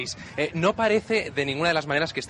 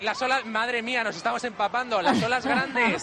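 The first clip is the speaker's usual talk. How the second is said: emocionado; 7 semitones higher than usual. Real, not acted. Reporter hit by big waves.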